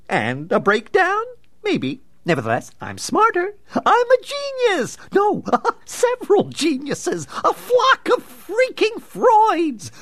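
high, slow, giddy raving genius; manic villain. Acted. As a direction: gloat like a madman.

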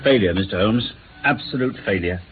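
low-pitched, downcast admission; dejected. Acted. Hopkins reports his failure to Holmes, dejected. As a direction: confess defeat, pitch dropped.

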